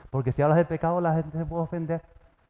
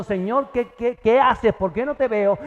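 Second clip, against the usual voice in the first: pleading cry to God; 6 semitones higher, 3 dB louder, slower than usual. Pretend. Believer cries out to God.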